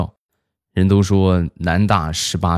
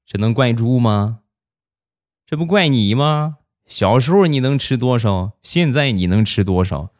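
higher-pitched scolding retorts, imitating mom; eye-rolling mom, voice pitched up; exasperated mom; 6 semitones higher than usual. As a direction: play a mother throwing the blame back, question after question. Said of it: "我妈翻了翻白眼儿".

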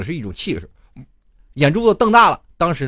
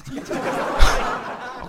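breathy laugh. Real, not acted. Laughs at own story.

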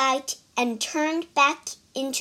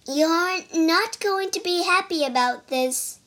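cartoon princess; 6 semitones higher than usual. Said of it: "The princess hesitated".

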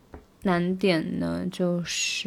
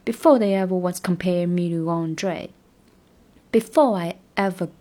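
slow, even practice read; 3 dB louder than usual. Shown as a demonstration. Teacher drills the tricky run slowly. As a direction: spell out each linked word slowly. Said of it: "这个三连要稍微练一下".

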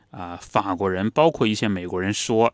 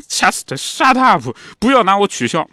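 mother shushing; 9 semitones higher, 5 dB louder than usual. Retold or imitated. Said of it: "然后妈妈就说".

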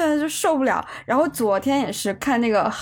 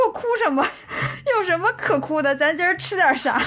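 breezy dismissal; 6 semitones higher than usual. Retold or imitated. 模仿自己满不在乎的回答.

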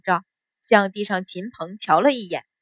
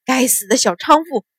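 angry curse through clenched teeth, held in; cursing through gritted teeth; 3 semitones higher than usual. Acted. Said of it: "咬牙骂道".

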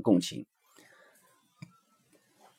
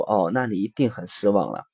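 softer, understanding parental response; empathetic; 3 semitones lower, 5 dB quieter than usual. Shown as a demonstration. Father to disappointed child after cancelled picnic, gentle empathy. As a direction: reflect the feeling back quietly, with sympathy. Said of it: "共情".

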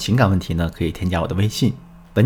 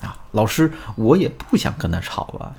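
slightly softer, acted reluctant sigh; 5 dB quieter than usual. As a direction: give in a little, as the student. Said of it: "也跟着叹了一口气". (模仿学员叹着气说)

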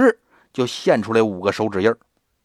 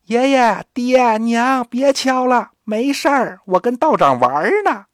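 高声冲门外喊话，音调抬高; 像孩子一样拔高嗓门喊家人; 扯着嗓子喊; 9 semitones higher than usual. Acted. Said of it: "扯着嗓子喊". (孩子扯着嗓子冲门外的家人喊没事)

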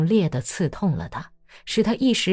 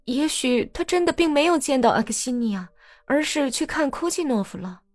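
smoothing it over; 7 semitones higher than usual. Acted. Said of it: "竭力平息自己的话惹出的祸".

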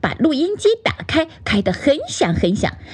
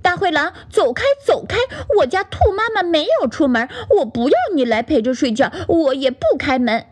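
明显更高的孩子式喊话; 高声把狼赶走; 大声喊; 6 semitones higher, faster than usual. Acted. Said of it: "在大声地说". (小兔在屋里大声赶大灰狼)

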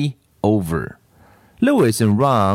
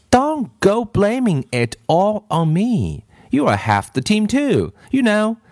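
high-pitched, defensive complaint; lightly acted playground indignation; indignant protest; 10 semitones higher than usual. A narrator's reading. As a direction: push the blame back, pitched well up. Ron objects to being blamed.

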